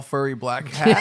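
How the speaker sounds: laughing while he talks; slow words through a chuckle. Real, not acted. Laughing at own joke.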